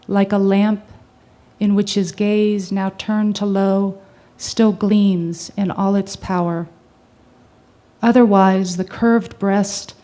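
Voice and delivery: deliberate, measured reading of a sonnet; solemn poem recital with held pauses; poetry recitation. Acted. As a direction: recite it phrase by phrase, building with weight.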